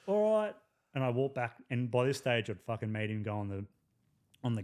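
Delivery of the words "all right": very high, meek little voice. Retold or imitated. Culprit repeating himself when challenged, meek and high. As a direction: answer in a tiny, timid voice. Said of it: "this little meek voice go".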